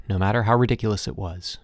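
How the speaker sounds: ordinary delivery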